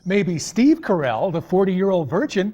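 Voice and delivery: comic voice. Acted. Riffing joke on the name.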